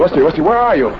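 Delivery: loud, urgent calling. Acted. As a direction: shout her name into the dark. Searching for her in the dark.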